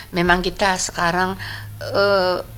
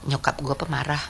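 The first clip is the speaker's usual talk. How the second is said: put-on teen grumble, laughing; 4 semitones lower, 6 dB quieter than usual. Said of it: "Apa yang kamu sering keluar".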